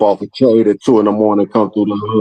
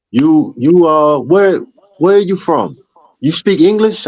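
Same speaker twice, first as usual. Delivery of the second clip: imitating a foreign man; 9 semitones higher than usual. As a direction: play the curious stranger, pitched way up. Imitating a foreign man questioning him.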